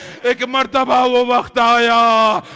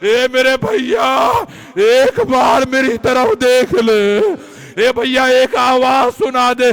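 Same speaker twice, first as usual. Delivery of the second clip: anguished sister crying out; 3 dB louder than usual. Acted. Preacher voicing Zainab calling her wounded brother, anguished cry. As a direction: plead with her brother, voice louder and aching. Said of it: "Zainab ने तड़प के कहा".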